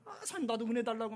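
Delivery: mock-petulant begging; indignant pleading. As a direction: plead with a worked-up, aggrieved edge. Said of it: "분이 나가지고".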